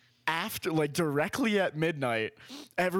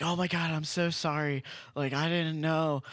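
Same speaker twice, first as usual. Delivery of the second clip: higher-pitched imitated apology; gushing apology; 3 semitones higher than usual. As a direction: imitate a drunk partygoer suddenly sorry. Retelling drunk woman's apology.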